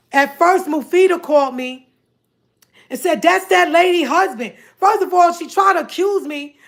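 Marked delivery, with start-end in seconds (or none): 3.2-4.5 accusing tone. Retold or imitated. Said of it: "The way she said it".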